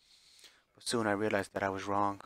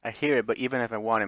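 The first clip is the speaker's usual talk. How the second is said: desperate; 6 dB louder than usual. Acted. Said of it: "sounding almost desperate".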